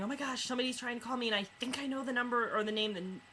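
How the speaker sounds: mock-frantic wife rattling on. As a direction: gabble it out in a panic. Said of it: "frantically going".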